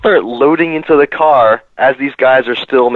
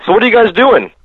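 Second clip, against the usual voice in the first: guard question; 9 semitones higher, 4 dB louder than usual. Retold or imitated. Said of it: "he's like".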